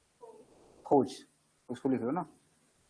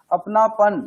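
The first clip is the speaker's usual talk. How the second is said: अपनापन said louder, with warmth of feeling; 3 semitones higher, 5 dB louder, much slower than usual. Shown as a demonstration. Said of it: "मैं भाव दे रहा हूं ना". (अपनापन भाव के साथ, ज़ोर देकर)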